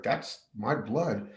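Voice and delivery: a hint of numb disbelief; stunned realization. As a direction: let it sink in slowly, almost to himself. Realizing he is bleeding.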